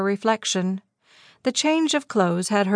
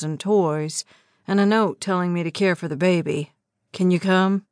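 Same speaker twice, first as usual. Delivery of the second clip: lightly voiced man; 2 semitones lower than usual. Narrator voices fiancé Eli.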